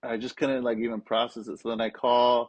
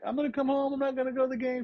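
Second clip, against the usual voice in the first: much higher tearful plea; retold crying; 13 semitones higher, faster than usual. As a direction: voice pushed high as if weeping. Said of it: "and I'm, like, crying".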